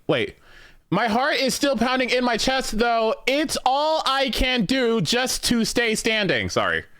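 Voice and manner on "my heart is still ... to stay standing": pitched way up, slow and emphatic; voicing a character's relief with breathless drama; higher dramatic reread. Shown as a demonstration. Player rereading the line in a high dramatic voice. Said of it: "Wait, what?".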